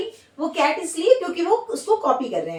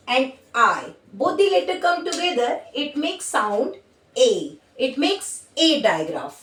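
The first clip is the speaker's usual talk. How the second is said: drawn-out, slow rule recital; slow teaching voice; much slower than usual. Shown as a demonstration. Teacher explaining a phonics rule to kids, slow and deliberate. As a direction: spell out the rule slowly for kids. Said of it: "teacher spells out the rule slowly".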